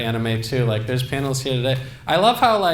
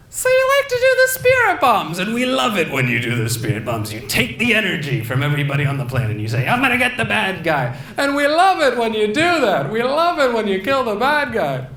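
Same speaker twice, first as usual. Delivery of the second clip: much higher, fawning interviewer voice; Jiminy Glick; 7 semitones higher than usual. Acted. Jiminy Glick interviewing Goku, high and gushing. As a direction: gush at Goku in a high put-on voice. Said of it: "my impression of Jiminy Glick interviewing Goku".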